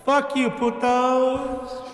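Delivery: gangster yell. Acted. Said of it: "He did the gangster, like, fucking yell".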